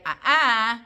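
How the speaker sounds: loud, sharp no-no noise; interrupter. Shown as a demonstration. Owner interrupts dog eyeing the pizza, loud sharp warning. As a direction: cut the dog off with a firm sound. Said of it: "something like that as an interrupter".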